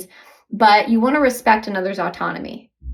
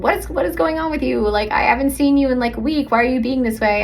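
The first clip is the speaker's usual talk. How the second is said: confused partner; 3 semitones higher than usual. Retold or imitated. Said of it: "And he's like".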